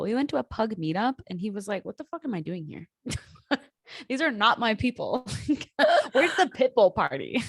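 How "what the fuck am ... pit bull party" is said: laughing through a grumpy dog's voice; giggling dog impression; mock dog voice. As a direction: play the snobby dog, cracking up. Voicing the dog's thoughts.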